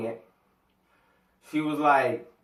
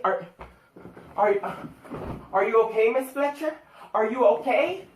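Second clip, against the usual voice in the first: sucking up; 6 semitones higher than usual. Retold or imitated. Classmates fawning over Miss Fletcher on Monday, high mock-concerned voice. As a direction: overdo the worry to win the teacher's favour. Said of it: "trying to be cool with the teacher".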